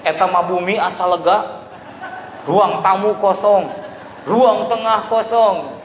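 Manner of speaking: mock exultation, loud and drawn out; delighted wife. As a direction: celebrate each empty room, stretching the words. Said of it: "Istrinya tersenyum lebar".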